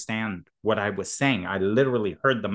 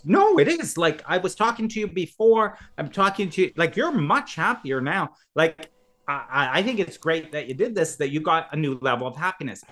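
friend's voice; 4 semitones higher than usual. Retold or imitated. Friend voiced in retold story.

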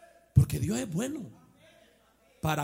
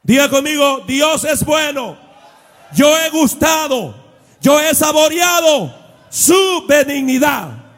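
shouted preaching, higher and louder; predicación a gritos; 11 semitones higher, 21 dB louder than usual. Acted. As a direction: rouse the congregation at full force. Preaching at full force. (predicador gritando a la congregación)

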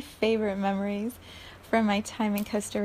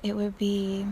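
ordinary talk, nothing marked

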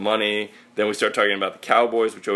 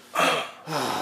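pee grunt; 5 dB quieter than usual. Retold or imitated. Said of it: "You just go".

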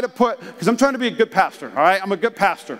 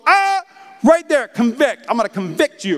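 mock self-righteous accuser; 5 semitones higher, 3 dB louder than usual. Mocking religious people.

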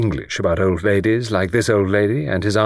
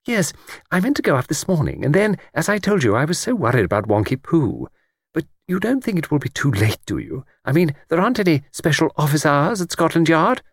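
put-on high, eager elderly lady voice; chatty old lady; 7 semitones higher than usual. Old lady on the train chatting to Luke, high elderly voice. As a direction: play a talkative old lady delighted by a stranger.

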